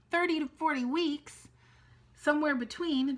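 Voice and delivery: like you can't believe the number; repeating the doctors' words in shocked disbelief; incredulous. Real, not acted. Reacting to shocking news.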